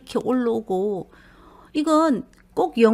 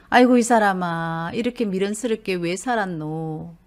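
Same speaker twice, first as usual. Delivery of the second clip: scolding sigh; 3 semitones lower than usual. Retold or imitated. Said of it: "나무 얘기하듯이 하니까".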